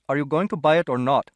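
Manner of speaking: impatient London shopkeeper; gruff shopkeeper. A narrator's reading. Gruff shopkeeper voiced in story.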